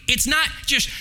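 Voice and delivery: preacher driving the point home to the congregation; emphatic preaching. Acted.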